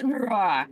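half-hearted spoken bear growl; a lazy mock roar; bear noise. Filling in for the bear call, half-hearted mock roar. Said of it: "Insert bear noise".

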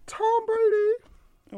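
mocking, high, slow shout-out; drawn-out sarcastic praise. Real, not acted. Sarcastic shout-out to rival quarterback.

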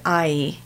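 "I" ending in a smile ee; American standard I. Shown as a demonstration. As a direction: finish the I on a smile. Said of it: "we make the smile at the end of it".

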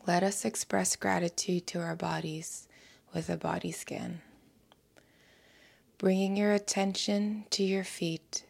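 calm, measured meditation voice with long pauses; unhurried soothing guidance, letting each phrase settle; guided meditation. Acted. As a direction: guide the listener gently into stillness, phrase by phrase.

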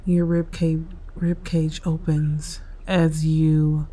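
unhurried meditation guide with long pauses; guided meditation. Real, not acted. Host guiding listeners through breathing and stretches, calm meditation delivery. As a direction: lead them calmly through each breath, leaving space.

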